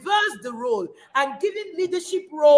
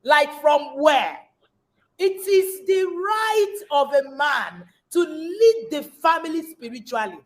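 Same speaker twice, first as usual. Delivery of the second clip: indignant. Acted. Indignant preaching against men.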